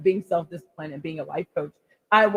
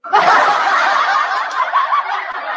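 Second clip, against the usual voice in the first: loud high burst of laughter; big laugh; 7 dB louder than usual. Real, not acted. Vlogger laughing at her wild-child confession, loud laugh. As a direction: crack up at your own joke.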